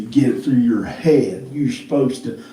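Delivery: slow, deliberate scolding quote; a mock lecture, each word slowed; stern scolding. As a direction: spell it out like a lecturing husband. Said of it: "I would never say".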